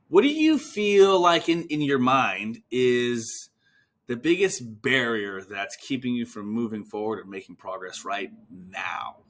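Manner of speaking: slow, drawn-out careful question; unhurried probing question that eases down; deliberate scripted question. Shown as a demonstration. Demonstrates the scripted question to patient.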